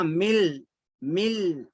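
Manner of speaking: मिल with a held l in place of n; merged mil. Shown as a demonstration. Teacher showing how written min is read, merged into l. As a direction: say मिल, lingering on the l. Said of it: "लेकिन पढ़ेंगे कैसा?".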